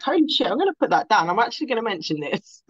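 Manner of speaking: fast, flustered inner thought; rushed panic. Retold or imitated. Shaking at the event, fast flustered thought. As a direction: blurt it out quickly. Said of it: "I was like".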